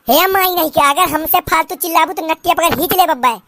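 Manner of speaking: put-on old village mother-in-law scolding in dialect; lightly voiced rustic saas, scolding; nagging mother-in-law.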